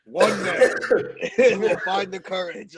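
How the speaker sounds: hammed-up movie trailer narrator, slow at the end; mock the epic trailer announcer; laughing through a movie-trailer voice. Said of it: "bad impression of the guy that does the movie intros".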